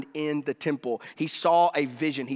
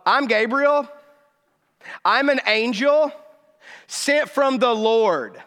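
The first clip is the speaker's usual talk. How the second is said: slow, louder, higher declaration as the angel; Gabriel's answer; 4 semitones higher, 3 dB louder, slower than usual. Retold or imitated. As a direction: proclaim it like an angel. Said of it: "Gabriel's like".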